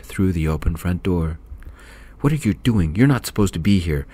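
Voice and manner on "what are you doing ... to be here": screaming. Acted. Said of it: "Missus Gaines screamed".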